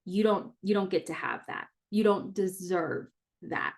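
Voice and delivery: quietly matter-of-fact, not condescending; matter-of-fact inner voice. Retold or imitated. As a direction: imitate a self-doubting thought as simple fact. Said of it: "it's a matter of fact voice".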